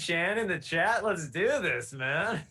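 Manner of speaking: playful hyped-up call to action; rally the gang as a joke, pitch lifted; mock rallying. Jokingly rallying chat for heist.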